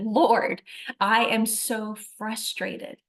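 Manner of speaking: slow, emphatic mock exasperation; retold frustration. Woman crying out to the Lord, retold frustration. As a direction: lean on each word, mildly exasperated. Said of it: "I think I even said".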